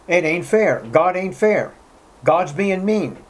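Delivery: indignant "not fair" grievance, lightly acted; acted protest. Voices the average person's objection.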